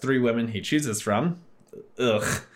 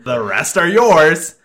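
sleazy boss voice; 5 semitones higher, 9 dB louder, slower than usual. Retold or imitated. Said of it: "while saying to his other".

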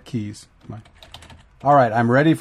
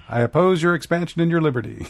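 laughing; 7 semitones higher than usual. Pretend. Joking voiced quote of Diana.

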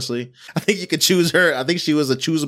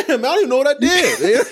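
retold bewildered kid; 7 semitones higher, 3 dB louder than usual. Voices a bewildered punished kid.

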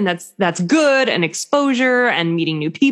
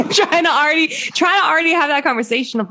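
amused exasperation; 10 semitones higher than usual. Real, not acted. Laughing over planning another baby.

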